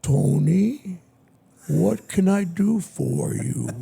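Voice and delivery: a slow, lightly voiced record boss; a self-mocking bad imitation of a smooth executive; slow, mildly put-on executive voice; Clive Davis impression. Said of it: "My worst imitation".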